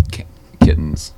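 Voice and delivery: loud absurd claim; loud deadpan boast. Acted. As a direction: announce it loudly.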